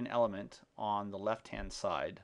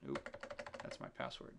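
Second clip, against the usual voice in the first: muttered aside; 7 semitones lower, 8 dB quieter, faster than usual. Real, not acted. Catches himself typing password.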